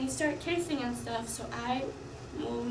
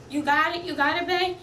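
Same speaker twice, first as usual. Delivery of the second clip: egging on; 4 semitones higher, 8 dB louder than usual. Retold or imitated. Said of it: "she's like".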